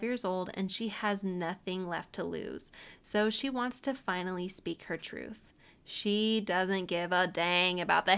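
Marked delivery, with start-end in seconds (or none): none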